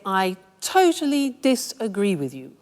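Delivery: mildly forceful objection; firm, confrontational rebuttal; aggressive disagreement. Shown as a demonstration. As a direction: disagree outright, with some force. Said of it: "if you want to be aggressive".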